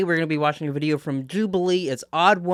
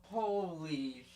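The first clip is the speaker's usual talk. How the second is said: imitating a shocked, cursing grandkid; foul-mouthed granddaughter; slower than usual. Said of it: "I guess she was thinking".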